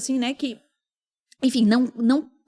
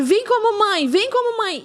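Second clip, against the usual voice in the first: tearful pleading; 9 semitones higher than usual. Retold or imitated.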